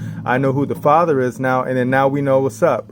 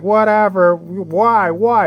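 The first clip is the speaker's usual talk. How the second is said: mocking skeptics; 7 semitones higher, much slower than usual. Imitating doubters who brush off his preaching, high and whiny. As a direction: mimic doubters brushing him off.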